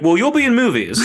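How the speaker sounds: high, sly voiced reply; a hint of a sly curse; mock monkey paw. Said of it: "they're just like".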